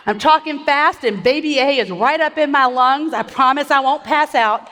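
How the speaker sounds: breathless from pregnancy; short of breath, pushing through. Real, not acted. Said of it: "If I sound like I'm out of breath".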